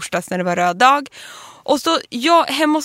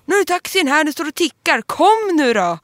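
imitating his impatient shout, pitched up; retold yelling; 4 semitones higher than usual. Husband hurrying his wife to the waiting taxi, mock yelling. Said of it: "hur han skriker så här".

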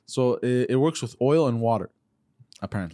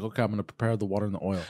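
aunt's spell voice; 6 semitones lower, 6 dB quieter, much faster than usual. Retold or imitated. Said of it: "So it sounds like this".

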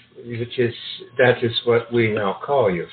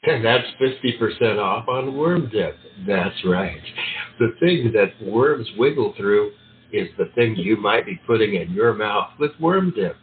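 cheesy ad announcer; hammy announcer voice. Acted. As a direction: sell the worm dip like late night TV. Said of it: "do the hammy announcer voice".

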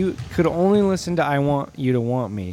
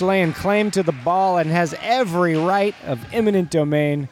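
lively game announcer; sports commentary; 4 semitones higher than usual. Acted. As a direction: call the game. Play-by-play commentary.

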